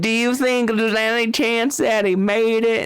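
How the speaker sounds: high, hammed-up pleading question; mock hopeful. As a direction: ask it like a desperate hopeful. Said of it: "And she's like".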